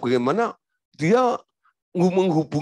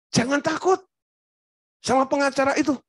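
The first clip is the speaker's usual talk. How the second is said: emphatic reassurance; 13 semitones higher, faster than usual. Acted. Pastor reassuring frightened wife.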